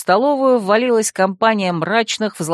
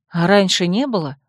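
surprised. Acted. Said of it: "удивилась я".

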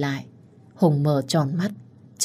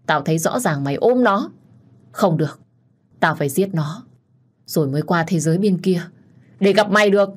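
jealous rage. Acted. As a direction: hurl the accusations at her. Đức ghen điên cuồng quát vợ. (giận dữ ghen tuông quát tháo)

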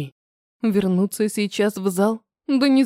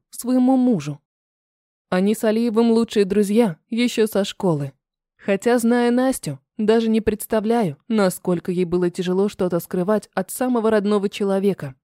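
ordinary delivery

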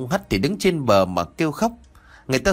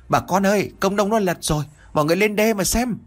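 calling out from far away, raised and high; shouting out; 9 semitones higher than usual. Acted. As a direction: shout the news to the whole village. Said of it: "có một người hô lớn". (hô lớn gọi cả làng)

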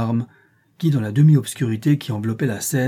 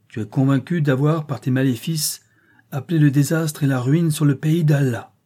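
formal accusation; 4 semitones higher, 4 dB louder than usual. Acted. Sultan charges woman with evil spells, formal accusation. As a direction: accuse in a firm, slightly raised voice.

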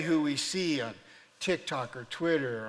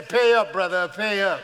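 triumphant demand; 3 semitones higher, 11 dB louder than usual. Acted. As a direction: call in the bet at full voice. Winning angel demands the bet.

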